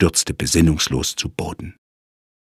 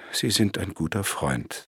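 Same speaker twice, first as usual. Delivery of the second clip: softer, touched and grateful; moved; 7 dB quieter than usual. Acted. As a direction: say it quietly, moved. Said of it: "sagte Sir John gerührt".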